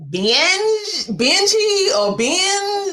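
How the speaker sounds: binge sounded out high, then Benji tried slowly; trying binge and Benji aloud; unsure pronunciation. Shown as a demonstration. Host checking the guest's tool name aloud, unsure. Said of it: "if I'm saying it correctly".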